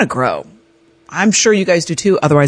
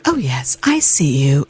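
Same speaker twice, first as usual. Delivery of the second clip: calm, sick voice; 2 semitones lower than usual. Retold or imitated. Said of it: "in that very calm, sick voice".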